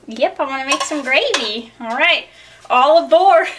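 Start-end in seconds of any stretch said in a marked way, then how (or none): 2.7-3.5 a hint of a train conductor calling out, louder; mock train conductor. Joking about the gravy train, mock conductor call.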